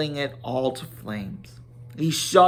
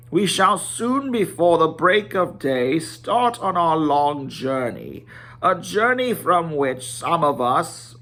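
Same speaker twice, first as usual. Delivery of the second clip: Thorin's solemn speech. Acted. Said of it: "So Thorin went on".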